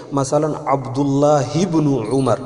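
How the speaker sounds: عبداللہ ابن عمر with the ہ of عبداللہ given a zer and run into ابن; عبداللہ ابن said as abdullahi-bnu, no break; Arabic liaison. Shown as a demonstration. Teacher demonstrating the joined Arabic reading of عبداللہ ابن. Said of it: "ہا کے نیچے زیر اور ہا کو با کے ساتھ ملا کر کے پڑھیں گے".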